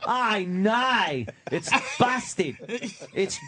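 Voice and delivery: put-on Australian accent. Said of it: "You did the Australian".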